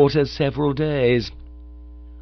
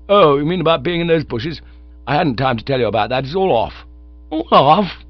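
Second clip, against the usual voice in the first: higher, rushing rapture; lovestruck young chap; 6 semitones higher than usual. Acted. Bingo gushes to Bertie about love, eager. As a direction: gush about the girl.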